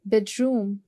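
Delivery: "बेडरूम" with weight on the first syllable; stress on first syllable. Shown as a demonstration. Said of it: "which is bed". ("बेडरूम" में पहले syllable पर ज़ोर)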